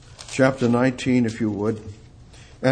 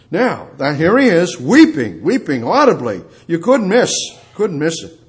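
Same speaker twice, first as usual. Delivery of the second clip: emphatic preaching with punched key words; fervent preaching; 5 semitones higher, 5 dB louder than usual. Real, not acted. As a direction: hammer the repeated words from the pulpit. Preaches on weeping.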